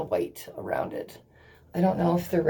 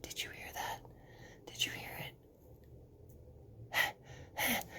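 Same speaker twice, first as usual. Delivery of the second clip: hushed whisper to viewers; whisper, listen closely; 3 semitones higher, 20 dB quieter than usual. Real, not acted. Asking viewers to listen to the peeling sound, whispering.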